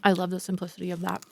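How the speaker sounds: chewing while talking; mouth full. Real, not acted. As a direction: speak around a bite of food. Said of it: "I'm talking with my mouth full".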